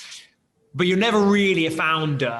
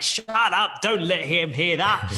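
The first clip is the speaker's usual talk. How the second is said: friends hushing; 3 semitones higher, slower than usual. Retold or imitated. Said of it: "all my friends around me are like".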